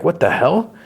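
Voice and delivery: high-pitched startled question; mock alarm. Husband turns to find Pennywise with cleaver, mock alarm. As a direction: blurt it out high, rising in disbelief.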